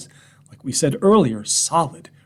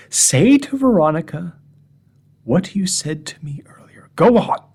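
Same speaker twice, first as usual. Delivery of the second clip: eager coaxing; 5 semitones higher, 5 dB louder than usual. Retold or imitated. Urges dog before his wife.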